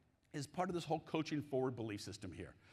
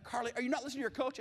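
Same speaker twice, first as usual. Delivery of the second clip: exasperated dad; 8 semitones higher, much faster than usual. Retold or imitated. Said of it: "I'm like".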